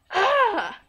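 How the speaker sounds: laughing groan. Real, not acted. Laughs at mess.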